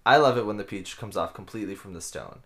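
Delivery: upbeat commercial read, lightly done. Acted. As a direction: sell the peaches like a radio spot. Mock sponsor ad read.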